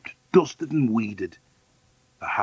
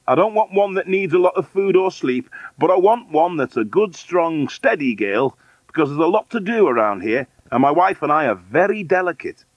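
higher, louder, fussy employer; insistent, pitched-up fussy man; demanding man on phone; 7 semitones higher, 5 dB louder than usual. Acted. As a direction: lay down demands in a raised voice. Man lists his demands.

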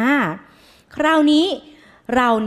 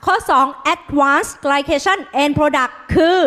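slow read-aloud; 3 semitones higher, slower than usual. Shown as a demonstration. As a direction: lead the class reading, slowly and clearly. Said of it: "หมอดาวจะอ่านเป็นภาษาอังกฤษ".

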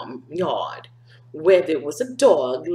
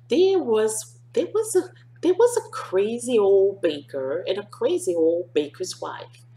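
lively storybook reading; bright read-aloud for a class; reading to children. A narrator's reading. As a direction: read it like story time for kids. Reading picture book aloud to children.

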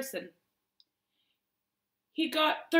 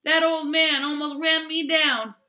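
indignant shout; 7 semitones higher, 10 dB louder than usual. Acted. Boy complaining after near miss.

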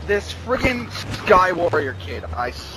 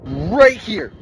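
taunting threat; 4 semitones higher than usual. Real, not acted. Gloating threat to griefer.

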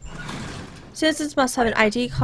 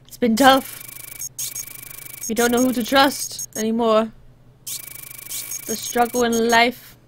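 put-on Arstotskan citizen; slower than usual. Local explaining rudeness since the war, mock weary. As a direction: play a lightly accented world-weary local.

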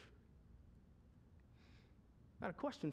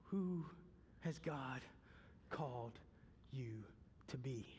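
sinking lower and softer to a whisper; fading to a whisper; 5 semitones lower, 9 dB quieter, slower than usual. Real, not acted. Pastor asking the church, fading to a whisper. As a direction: let it fall to a whisper.

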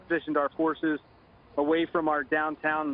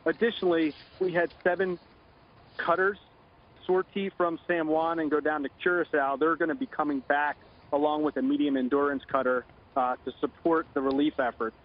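phone line; 5 semitones lower than usual. Real, not acted. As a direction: voice over a telephone line. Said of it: "Joining us now on the phone".

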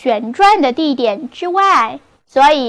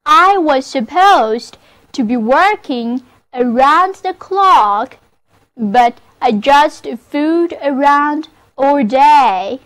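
model sentence reading. Shown as a demonstration. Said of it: "那么这个句子就是".

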